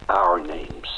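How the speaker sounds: whisper. Acted. Bitter aside after "blacken his name.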